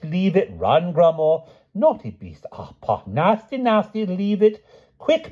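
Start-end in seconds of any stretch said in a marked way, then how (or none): 0.0-0.5 same order, dropped back down in volume. A narrator's reading. Repeats order.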